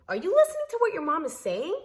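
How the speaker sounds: high, loud, furious demand at him; angry shout. Retold or imitated. Yelling at her husband in front of his mother, high and loud. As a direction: yell it at him, outraged.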